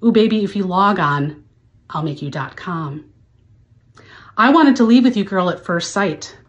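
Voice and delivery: overwrought dramatic poetry recital; hammy stage actor. Acted. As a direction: recite it like a grand soliloquy. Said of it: "to recite the lyrics".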